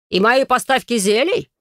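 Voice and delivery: put-on young baron cries out, high and loud; cry out. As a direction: shout the question in outrage. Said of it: "вскричал молодой барон".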